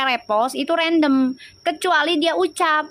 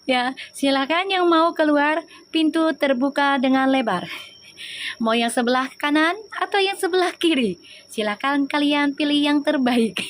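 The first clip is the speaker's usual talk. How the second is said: flight attendant voice. Pretend. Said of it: "Udah kayak pramugari gua".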